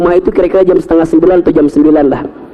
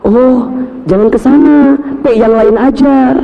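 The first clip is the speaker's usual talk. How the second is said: hesitant refusal; 4 semitones higher, slower than usual. Retold or imitated. Refusing costly hospital.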